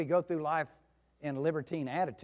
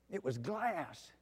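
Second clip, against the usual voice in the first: slow, soft and hushed; quiet wonder at the calm sea; 2 semitones higher, 5 dB quieter, much slower than usual. A narrator's reading. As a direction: let the stillness land. Sudden calm after storm.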